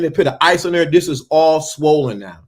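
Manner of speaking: ordinary talk, nothing marked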